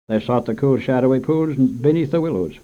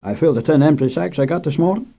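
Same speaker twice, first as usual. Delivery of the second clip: lightly voiced old storekeeper, higher; a hint of a fretful shopkeeper explaining; old shopkeeper grumbling about bad sacks, higher; 5 semitones higher, 5 dB louder than usual.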